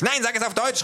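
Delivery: loud, high, angry thug; calling out. A narrator's reading. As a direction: bark the order. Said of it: "ruft er". (laut und hoch gerufen)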